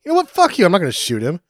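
cartoonish tough-guy outburst; mock defiance. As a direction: spit it back in defiance. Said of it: "he looks up and goes".

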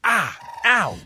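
high, sudden cries of pain; startled pain yelps. Acted. Contestant bitten by a ferret, yelping. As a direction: yelp as if just bitten.

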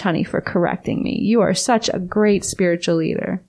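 dry sarcastic praise; sweetly sarcastic thanks. Real, not acted. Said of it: "I sense a tone of sarcasm".

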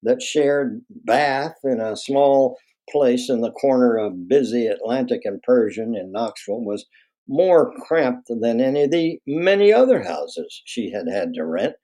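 lively, expressive read-aloud with savored phrases; story narration. A narrator's reading. Author reading a memoir about mother to an audience, expressive narration. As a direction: read it as a dramatic memoir passage.

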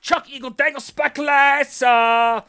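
hammed-up Midwest accent, loud; Midwestern accent. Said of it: "That's a twenty eighteen accent right there".

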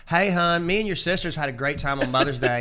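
put-on Southern mom accent. Imitating mom on the phone, in a thick Southern accent. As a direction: say it like a syrupy Southern mother greeting her kid. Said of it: "thick as syrup Southern mom accent".

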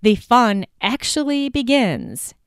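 slow, drawn-out mock enthusiasm; mildly sarcastic, deliberately paced; kind of sarcastic. Real, not acted. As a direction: stretch it out with light sarcasm. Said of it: "that's kind of sarcastic".

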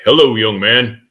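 mildly booming, a little lifted. Retold or imitated. President greets man slumped in a wheelchair, mildly booming voice. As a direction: imitate a hearty presidential greeting. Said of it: "with his booming voice".

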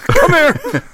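put-on very high cranky old-man rant, ending in a yell. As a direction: scold kids like a geriatric grouch. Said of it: "do an old man voice".

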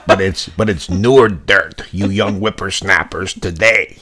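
a light touch of cranky geezer; scolding the youngsters, lightly voiced; old man voice. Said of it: "I wanna talk in my old man voice".

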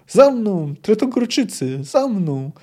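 high rallying shout; roared command. A narrator's reading. De Ruyter leads the Tretogor men forward, roaring. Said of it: "ryknął".

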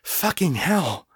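slow strained hissed curse. Acted. Kate hissing as she fights the lust, strained. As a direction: force the curse out under strain. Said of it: "she hissed".

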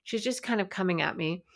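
ordinary talk, nothing marked

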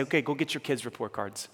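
soft, gentle voicing of Jesus; a hint of a tender Jesus; gently, lovingly. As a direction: say it like a loving nudge. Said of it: "he'd say gently, lovingly".

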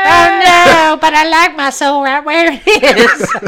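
high, loud laughing protest; laughing mock fright. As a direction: fake panic through laughter. Mock fright at losing his soul.

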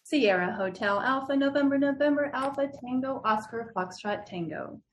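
"Sierra Hotel Alpha" said code word by code word; phonetic alphabet spelling. Shown as a demonstration. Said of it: "phonetically spelled".

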